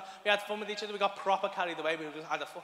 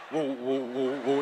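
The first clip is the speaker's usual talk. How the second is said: put-on child's whoa; 7 semitones lower, 4 dB louder, much slower than usual. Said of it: "Just like".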